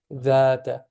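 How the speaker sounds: "Dhata" with the first a held for two counts; two-count vowel. Shown as a demonstration. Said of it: "this is also two syllables".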